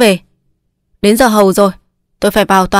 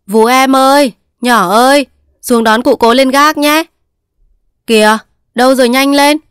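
calling upstairs; 4 semitones higher than usual. Acted. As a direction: shout up to the maid and servant boy. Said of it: "quay lên gác gọi với".

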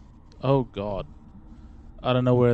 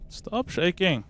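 being shaken; 2 semitones higher, 4 dB quieter, slower than usual. Real, not acted. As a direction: voice jolted by shaking. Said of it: "Why are you shaking me?".

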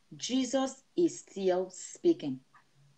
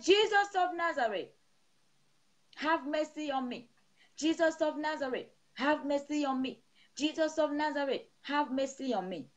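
higher, crying out for mercy; Bartimaeus crying out; 4 semitones higher than usual. Retold or imitated. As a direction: call out like the blind beggar. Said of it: "what the blind Bartimaeus was shouting".

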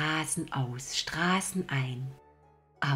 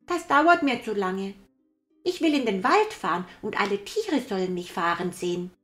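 put-on high, loud and fast child; a boy who wants more; impatient little boy; 6 semitones higher, 5 dB louder than usual. Häwelmann demands.

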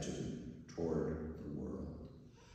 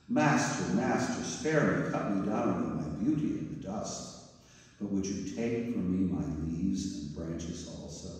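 begging. Acted. Bamboo begs master.

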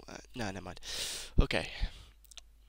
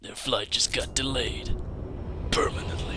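gruff soldier voice. Shown as a demonstration. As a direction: deliver it like a grizzled soldier. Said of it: "Yes, that voice again. Say that line for my viewers".

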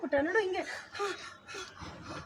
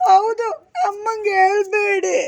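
slow, drawn-out tearful plea; demonstrated weepy begging; crying; slower than usual. Shown as a demonstration. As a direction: stretch the words as if crying. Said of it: "ಹತ್ಕೊಂಡು".

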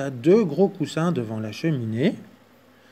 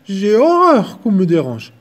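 loud, higher complaint; grumbling bear; 6 semitones higher, 10 dB louder than usual. Acted.

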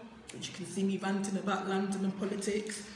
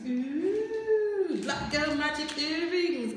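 excited; 5 semitones higher, 4 dB louder, slower than usual. Real, not acted. Opening box finds earrings.

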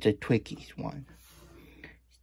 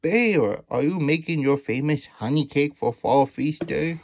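calling out; 5 semitones higher than usual. Acted. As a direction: call out to the bear. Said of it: "she called".

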